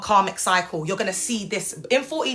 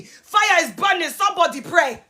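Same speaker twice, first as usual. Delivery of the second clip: mock Ghanaian preacher accent; 7 semitones higher than usual. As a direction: mimic an insane-sounding Ghanaian prayer warrior's accent. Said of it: "You sound insane".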